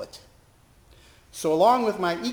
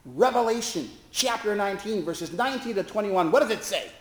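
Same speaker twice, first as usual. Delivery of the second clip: mild mock cry; 6 semitones higher than usual. Preacher pointing at the chaplain's chest, mock cry. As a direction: fire the verse at her like a test. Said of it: "and cried".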